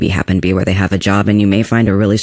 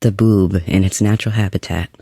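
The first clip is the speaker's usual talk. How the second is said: nature documentary. Acted. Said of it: "I feel like I'm talking about, like, wildlife".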